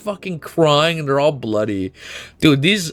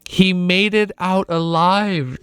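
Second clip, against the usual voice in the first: steady read-aloud of the novel's closing lines; story narration. Acted. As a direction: read it like the last page of a book.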